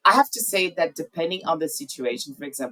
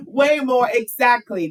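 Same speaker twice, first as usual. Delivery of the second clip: higher-pitched, just out of a laugh; amused agreement; 7 semitones higher, 3 dB louder than usual. Real, not acted. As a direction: agree heartily through the tail of laughter. Amused agreement right after laughing.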